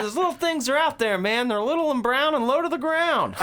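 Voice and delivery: high, loud put-on character voice; mock movie quote. Retelling a movie warning to a friend, high mock alarm. Acting out a film line, amused.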